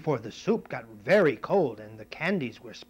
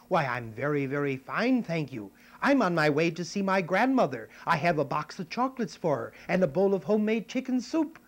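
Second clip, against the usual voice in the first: put-on lightly higher little girl voice; a hint of a cheerful little girl; Red Riding Hood; 4 semitones higher, 6 dB louder than usual. Girl telling the wolf about grandmother, lightly girlish. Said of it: "Little Red Riding Hood said".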